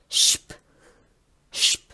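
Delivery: "shp" as a bare consonant cluster. Shown as a demonstration. Teacher giving the sound of initial SP, bare "shp". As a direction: say just "shp", no vowel. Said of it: "it's pronounced like".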